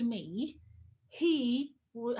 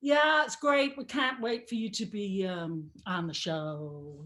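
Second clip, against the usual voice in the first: imitated American accent; 5 semitones lower, slower than usual. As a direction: put on an American producer's voice. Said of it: "and she's American".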